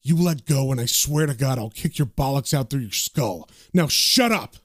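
mild acted anger, low threat building to a firm order; threaten, then snap the last words; understated angry warning. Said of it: "John turns to them angrily and says".

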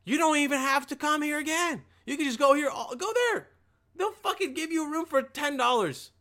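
high-pitched, worked-up dismissal; exasperated rant. Acted. Motel clerk sending customer to a rival, exasperated. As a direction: send him packing in a high, fed-up voice.

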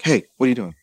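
a hint of dad checking in; dad's voice. Daughter retells dad's phone call, lightly voiced dad. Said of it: "I love your vocalizations of your dad".

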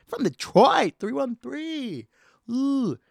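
high hyped-up callout; hype shout. Acted. Hyped Detroit area code callout.

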